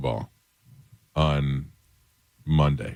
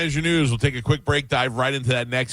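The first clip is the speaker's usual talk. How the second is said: upbeat, higher-pitched station tease; radio host outro; 6 semitones higher than usual. Acted. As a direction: send it to the break, radio-style. Host's outro into break.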